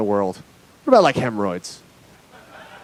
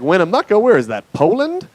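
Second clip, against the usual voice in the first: clueless question; 3 semitones higher than usual. Retold or imitated. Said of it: "'Cause they're like".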